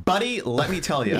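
lightly voiced, drawn-out buddy talk; slow down, a touch amused; Matt King. Teasing a friend with an impression, slow. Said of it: "do my Matt King impression".

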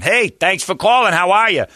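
mock a rep who doesn't bother being nice; lightly abrasive greeting; abrasive phone voice. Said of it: "Like some abrasive voice".

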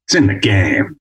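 lightly voiced deep announcer tag; a hint of the game-intro announcer; EA Sports tagline. Shown as a demonstration. Demoing his famous tagline for the radio host. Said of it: "I've been the voice of E A Sports".

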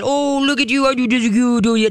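put-on high, gushing baby talk to a dog; high girly voice. Shown as a demonstration. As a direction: fuss over the dog in a girly pitch. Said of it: "But don't do that".

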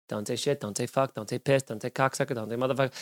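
hushed, muttered reminders to himself; inner voice. Retold or imitated. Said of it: "in the back of your head going like".

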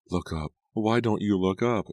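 high imploring call; Nora. A narrator's reading. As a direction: plead urgently to be noticed. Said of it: "she pleaded".

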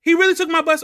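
laughing at how absurd the robbery was; laughing disbelief. Real, not acted. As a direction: laugh out the punchline of your own bad luck. Laughing at own robbery story.

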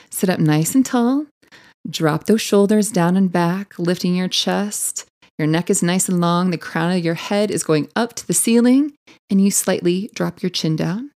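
calm, unhurried instructor guiding posture; soothing yoga class cues; yoga teacher voice. Shown as a demonstration. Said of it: "that was my yoga teacher voice".

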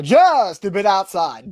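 slowed, dry put-on announcer voice; deadpan it like a radio play-by-play guy; baseball announcer impression. Quoting a movie baseball announcer, lightly voiced impression. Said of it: "where he's the baseball announcer".

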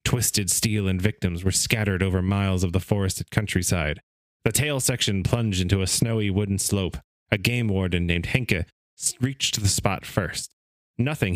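measured read-aloud narration; story reading. Acted. Host reading a book's story to his co-hosts, narrating. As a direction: read the account like an old magazine story.

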